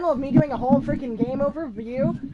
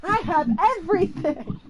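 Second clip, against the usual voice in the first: mock ecstatic gamer; 5 semitones higher than usual. Imagining playing on a PlayStation four, mock ecstatic. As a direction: play an overjoyed gamer, hammed up. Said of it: "and be like".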